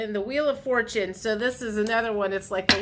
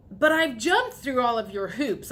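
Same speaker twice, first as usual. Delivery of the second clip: mildly exasperated, punched-up protest; exasperated complaint; 2 semitones higher than usual. Acted. Viewer complaining to the universe about jumping through hoops, mildly exasperated. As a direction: protest with a touch of frustration.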